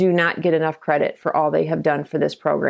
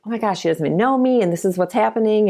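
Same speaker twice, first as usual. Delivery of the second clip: fast, higher disbelief; amazed; 6 semitones higher, faster than usual. Retold or imitated. Guest recalling her shock at Sue's kindness, quick and high. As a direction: rush through the amazed thought.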